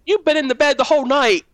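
high, emphatic imitation of mom; incredulous mother. Mother reassuring child she never left bed, incredulous. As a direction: play a mom answering in disbelief.

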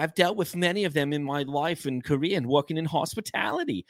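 put-on older New York woman's accent; older New York lady. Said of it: "like an older New York lady".

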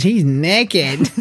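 a hint of a tickled child; imitating giggling daughter. Dad quoting his daughter spotting a shirtless man, lightly imitated giggly child. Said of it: "my daughter starts giggling, and she goes".

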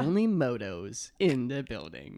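put-on slow baby voice, laughing; mocking baby talk. Shown as a demonstration. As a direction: say it like a sassy baby. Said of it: "in a baby ac-, voice".

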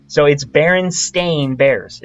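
Berenstain Bears said slowly, stain like stain the carpet; slow careful pronunciation. Shown as a demonstration. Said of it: "that's how it's pronounced".

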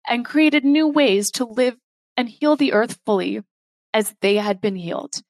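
measured spoken-word poetry; poem reading. Acted.

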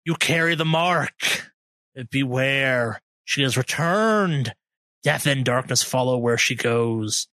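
put-on slow, raspy old woman warning. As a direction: croak it out like a frail old prophet. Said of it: "in a raspy voice".

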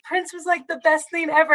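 high-pitched fake-fan imitation; mock gushing. Annoyed fan mimics everybody's posts, mocking.

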